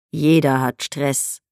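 slow, mildly scolding; a light telling-off from the doctor; reproachful. Acted. Company doctor gently scolding his patient, slow and reproachful. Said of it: "sagte der Betriebsarzt tadelnd".

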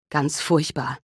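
a touch of tremble, hushed; trembling voice. Acted. Young officer answering the mother, trembling. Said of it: "mit zitternder Stimme".

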